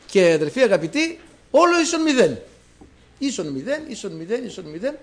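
κήρυγμα με πάθος; fiery preaching. Acted. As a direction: hammer home absolute zero to the brothers. Preaching at full force.

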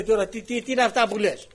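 loud, high dismissive scold; scolding shout. Retold or imitated. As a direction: wave him off with a loud scold. Official scolds the speaker.

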